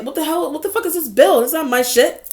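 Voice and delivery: half-playful exasperated rant at the mail; mock outrage. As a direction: act out finding a stranger's bill in your mail. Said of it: "you're like".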